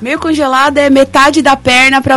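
normal talking voice

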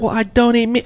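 high mocking coworker voice. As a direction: whine it like the coworker. Coworker voiced in retold argument.

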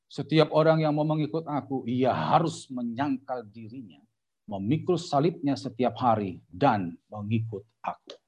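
measured verse reading, slowing as it goes; scripture reading. A narrator's reading. Preacher reads Luke to the congregation, slow scripture reading. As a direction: read it solemnly, phrase by phrase.

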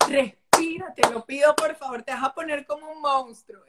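put-on a kid firmly coaxing his mother to breathe; child calming mom. Son telling his upset mother to breathe and calm down. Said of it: "Mamá, respira, cálmate".

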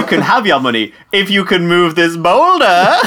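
hint of a supervillain setting a challenge; supervillain banker. Banker testing the hero's strength, lightly voiced supervillain. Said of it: "sound like the bankers are all out of work supervillains".

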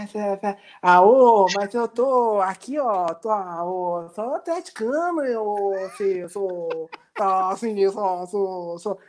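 lightly put-on Minas Gerais drawl, slow and hesitant; mineiro accent. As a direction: play a shy mineiro fumbling for words. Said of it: "Deixa eu incorporar o mineiro". (sotaque mineiro arrastado e tímido)

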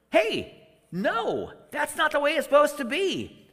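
gently correcting them, hey no; mild voiced Jesus.

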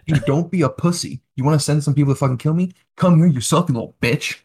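trash-talk him like a bar fight. Real, not acted. Taunting Xi Jinping directly.

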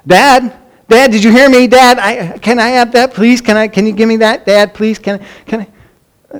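high-pitched, insistent string of pleas; pestering kids. Retold or imitated. Kids keep asking a dad who hasn't answered, mock pestering. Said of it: "They'd keep asking".

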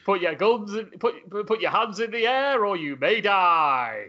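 lightly voiced cartoon villain; Ray Von. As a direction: deliver a mock bad-guy ultimatum, stretching the ending. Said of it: "he's got to still be Ray Von".

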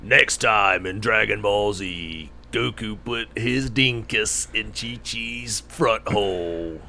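slow dramatic anime narrator; Dragon Ball Z announcer. Pretend. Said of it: "in the Dragon Ball Z announcer voice".

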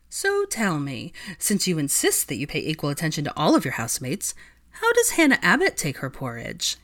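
dripping with sarcasm; sarcastic. Acted. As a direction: needle her sarcastically. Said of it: "in a tone dripping with sarcasm".

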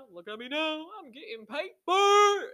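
laughing brag. Real, not acted. To doubters of dropouts, laughing triumphant brag. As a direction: crow about the money through laughter. Gloating about success, laughing.

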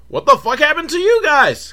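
a boss startled by his bloodied goons; mock boss outburst.

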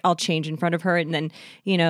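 ordinary talk

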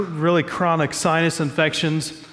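ordinary talk

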